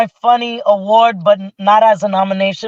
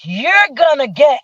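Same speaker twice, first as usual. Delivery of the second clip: higher, suspended announcer's build-up; prize reveal; 5 semitones higher than usual. Retold or imitated. Host revealing a gift on stage, teasing announcement. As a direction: dangle the prize like a show host.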